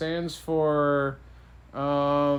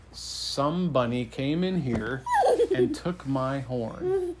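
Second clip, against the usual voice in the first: unhurried, measured king's announcement; weighty, drawn-out delivery with amusement creeping in; slow and deliberate; slower than usual. Acted. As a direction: spell out the pun slowly. King delivers pun slowly, deliberately.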